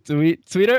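"Twitter" in his accent, ending on an r and rising like a question; his own accent on Twitter. Shown as a demonstration. Host asks him to say Twitter again, he repeats it in his own accent. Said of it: "Say it again, buddy".

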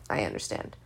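whispering to herself; breathy aside, unvoiced; whispered. Real, not acted. Telling herself to shut up.

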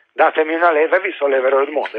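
quick scoffing repeat; hurried mocking recital; fast dismissive quote. Shown as a demonstration. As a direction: rattle the quote off quickly, puzzled. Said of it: "Cosa vuol dire?".

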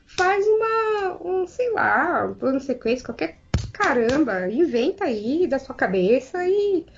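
slow, drawn-out groping for any alternative; exasperated appeal. Retold or imitated. Pleading with the director to improvise, exasperated. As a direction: stretch the words in mock exasperation.

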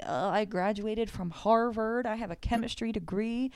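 put-on lightly slurred drunk man; slurred drunk speech. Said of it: "slurred and all".

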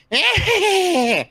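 high evil cackle of a skull; loud cackling. Acted. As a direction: cackle like a gleeful fire skull. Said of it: "is a loud cackling".

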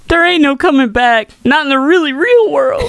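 high, loud dramatic line reading; movie quote voice. Acted. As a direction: deliver it like a dramatic film line.

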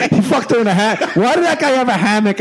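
high laughing disbelief; giggling through the words. Real, not acted.

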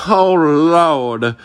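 high, drawn-out mock wail; retold wailing. Woman squatting on the hospital floor, mock wailing. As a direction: wail it like a woman making a scene. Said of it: "she was just, like, screaming out".

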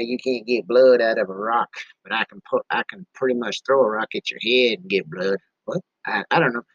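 a little tipsy, loose and wandering. Real, not acted. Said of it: "I'm a little tipsy".

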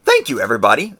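accidental squeaky lurch in pitch; voice crack. Real, not acted. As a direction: let the pitch crack upward like puberty. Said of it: "That was a weird inflection of my voice".

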